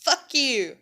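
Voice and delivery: punchy retold outburst; retold mad curse. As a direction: re-enact cursing him out. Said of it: "I was so mad".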